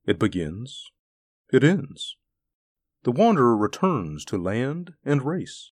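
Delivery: a calm creature musing aloud; calm wub voice. Acted. The wub speaks calmly.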